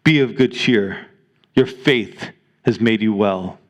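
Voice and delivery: a hint of a tender divine voice, low and unhurried; gentle voice of the Lord. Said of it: "the Lord would say to you this morning".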